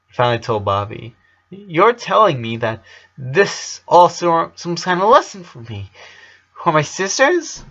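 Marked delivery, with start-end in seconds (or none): 1.5-7.6 put-on lightly raised pleading boy's voice; a hint of a hurt kid asking why; slightly higher boyish voice. Boy asks Bobby why this happens, lightly higher pleading.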